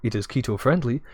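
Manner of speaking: upbeat sales pitch read; infomercial voice. Acted. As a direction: sell it like a TV ad. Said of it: "I'm gonna do my best, like, infomercial voice".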